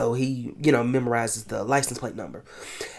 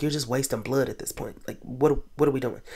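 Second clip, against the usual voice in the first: exasperated; 2 semitones lower, 6 dB quieter than usual. Retold or imitated. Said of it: "and I was like".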